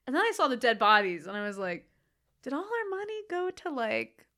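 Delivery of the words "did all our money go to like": high, rising disbelief with a laugh breaking in; loud, laughing disbelief at the cheap sets; incredulous. Retold or imitated. To her co-host, mocking the film's budget in loud, laughing disbelief. Shocked reaction to film's dead bodies.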